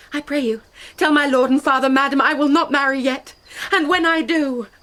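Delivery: defiant refusal. Acted. Juliet defiantly refuses marriage.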